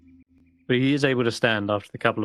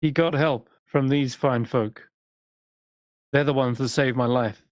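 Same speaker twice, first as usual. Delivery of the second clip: high, cocky adventurer voice; boastful explorer; 3 semitones higher than usual. Acted. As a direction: brag like a proud explorer. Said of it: "And Garrett's like".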